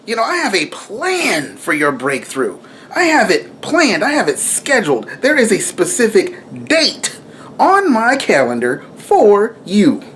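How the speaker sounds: lightly voicing the Lord speaking a promise; voice of God. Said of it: "the Lord's like".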